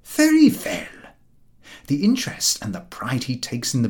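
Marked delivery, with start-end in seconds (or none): 0.0-1.1 lightly voiced, slow, smug dog; a self-satisfied working dog sizing up his master; proud milk-cart dog. A narrator's reading. Milk-cart dog to himself about his master, a touch smug and slow. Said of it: "What he says to himself is".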